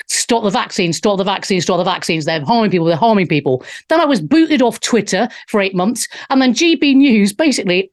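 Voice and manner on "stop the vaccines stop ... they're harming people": repeated urging. Retold or imitated. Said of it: "every day I was like".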